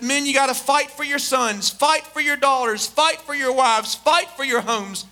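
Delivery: leader rallying his men; rallying battle speech. Acted. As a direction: drive each "fight" home like a commander. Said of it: "he looked at his men, he said".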